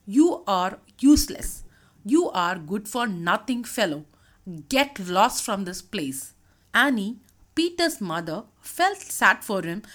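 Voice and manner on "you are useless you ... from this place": angry father. Acted. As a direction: throw your son out in anger. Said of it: "Anthony was angry".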